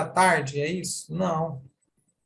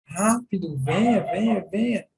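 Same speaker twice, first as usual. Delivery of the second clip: urgent calling. Shown as a demonstration. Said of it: "E vou fazer minha expressão facial".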